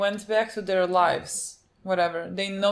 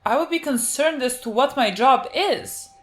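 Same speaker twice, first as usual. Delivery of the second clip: raised, higher-pitched indignant questioning; agitated protest; 5 semitones higher, 6 dB louder than usual. Real, not acted. Viewer arguing with co-viewer over the severed job, agitated protest. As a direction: argue it hotly, louder and higher. Heated objection to forgetting one's job.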